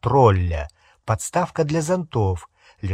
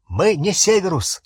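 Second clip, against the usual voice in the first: quick, higher-pitched blurted protest; mild bark; 6 semitones higher, 3 dB louder than usual. A narrator's reading. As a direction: blurt it out in understated alarm. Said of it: "успел гаркнуть Гарри". (негромкий выкрик повыше)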